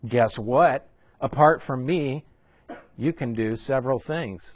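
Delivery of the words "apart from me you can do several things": mock misquote. Shown as a demonstration. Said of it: "No, you can do nothing".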